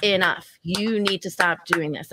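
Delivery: slow, deliberate scolding; stern teacher voice. Retold or imitated. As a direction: speak to her like to a naughty child. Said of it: "Teacher, teacher Val came out".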